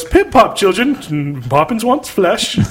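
a hint of a chirpy undead nanny; mock nanny call, half laughing; zombie Poppins. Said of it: "It's for zombie Poppins".

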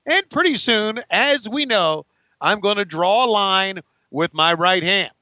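a hint of a pumped-up wrestler cutting a promo; lightly voiced Lex Luger. Comedian playing a wrestler on a promo, mildly puffed up. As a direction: strut through it like a cocky wrestler.

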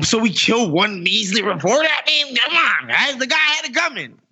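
mock Saudi shrug. Saudi official brushing off the reporter's murder, mock casual shrug. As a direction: shrug off a killing like it's nothing. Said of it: "that's basically what he's saying".

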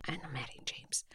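breathy whisper aside. Real, not acted. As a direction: whisper the names under your breath. Adds names in a whispered aside.

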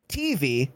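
"T V" with the first letter T stressed. Retold or imitated. Quoting the only person who says it so, stress on T in "T V". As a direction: lean on the T in "T V". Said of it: "and not T V".

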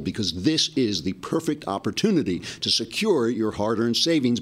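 smooth, steady sponsor read. Acted. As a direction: sell it like a radio ad. Host reads sponsor ad.

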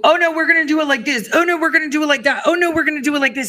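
high, fast sing-song mockery of the teams; mocking whiny voice. Mocking the rival teams pushing their own plans, high and fast. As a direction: rattle it off like a fussy know-it-all.

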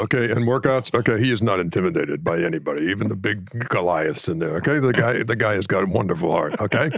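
imitation of an emphatic draft-room coach; lightly voiced coaching analyst; Hubie Brown. Shown as a demonstration. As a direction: deliver a verdict in measured chunks with tagged okays. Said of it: "Hubie used to be just tremendous".

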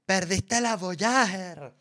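drawn-out accusing boss voice; mock boss scolding. Imita al jefe reclamando. (jefe regañando, lento y agudo)

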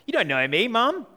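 a hint of a stroppy teenager; mock teenager. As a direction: imitate a defensive eighteen-year-old talking back to Mum. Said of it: "classic eighteen-year-old response".

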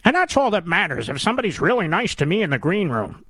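a hint of a gushing insider, sneering; mocking a fawning guest. Host mocks TV guests who love Chuck Todd, in a lightly put-on gushing voice.

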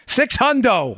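six hundo said high and punchy; tossing off "six hundo" like his brother; electrician brother slang. Retold or imitated. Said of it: "as my electrician brother would say".

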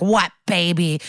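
mildly indignant retold outburst; mock outrage with drawn-out words; pissed-off aunt. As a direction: imitate an affronted aunt demanding answers. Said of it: "she's pissed".

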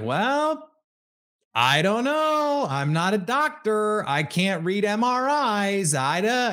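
high, slow, evasive coach voice; Bill Belichick impression. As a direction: drag it out high and dodging like a press conference. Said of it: "he was like".

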